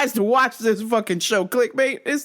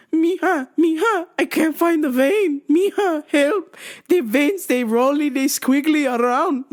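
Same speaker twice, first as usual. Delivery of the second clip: put-on higher, pleading Latina accent; mock Latina nurse; 7 semitones higher than usual. The older nurse asking for help, Latina accent. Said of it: "she goes".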